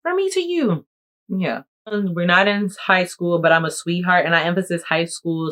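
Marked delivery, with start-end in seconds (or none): 0.0-0.8 much higher sing-song; sing-song gift tag. Pretend. Reading the gift tag to the viewer, sing-song high.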